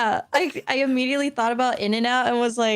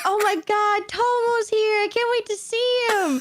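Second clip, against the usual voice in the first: mock eager excitement; 9 semitones higher than usual. Mocking her own eager self.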